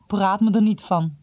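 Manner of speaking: puffing. Acted. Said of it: "pufte Jom".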